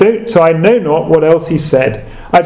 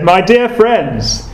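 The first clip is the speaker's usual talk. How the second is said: put-on broad Essex accent; 4 semitones higher than usual. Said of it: "in his broad Essex accent".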